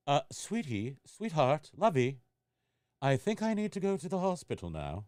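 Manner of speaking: mock-calm British accent, understated. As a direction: politely ask for the hospital in a British accent. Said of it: "I got a British accent and everything".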